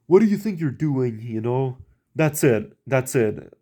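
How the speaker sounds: high mock-furious outburst; imitating an angry boss. Boss fed up with the helper, mock angry outburst. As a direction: act out the boss losing patience. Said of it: "he just got mad at me".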